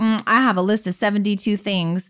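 ordinary talk

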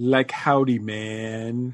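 laid-back hippie dude drawl, "man" stretched out. Introduced as a Woodstock hippie, greeting the host; hippie dude voice. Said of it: "you almost sound like the dude".

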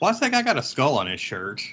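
fretting, worried motherly voice with swooping pitch. Retelling what mom asked on seeing the comic cover: imitating a worried mom. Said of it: "like a worried mom".

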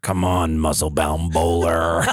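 mock raspy voice, slowed down. Telling a story about Cookie, quoting him in Cookie's raspy voice. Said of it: "he'd talk with his raspy voice".

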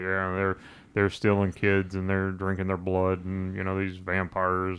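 dull, low, flat monotone with no inflection. Speaker imagines this dude delivering his claims plainly, in a monotone voice. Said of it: "came on in a monotone voice and was like".

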